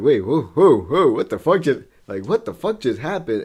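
stunned. Acted. Friend voices a punched kangaroo, stunned. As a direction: play a startled creature who just got decked.

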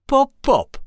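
high, loud copying voice; odd passerby copying. Acted. Strange passerby copying the witch's fish pops, high.

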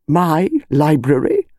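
slow, indignant repeat; outraged disbelief. Acted. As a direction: drag it out in outrage. Colonel outraged at body.

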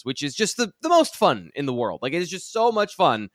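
mock enthusiasm, leaning on the praise; sarcastic. Real, not acted. Analyst joking about offenses he dreads watching, sarcastic. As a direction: gush with obvious sarcasm. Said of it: "Can you tell that I'm being sarcastic?".

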